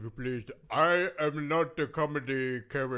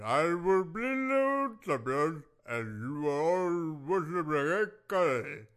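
wrestling promo. Acted. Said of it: "Are you cutting promos".

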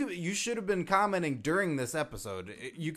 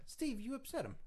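ordinary talk, nothing marked

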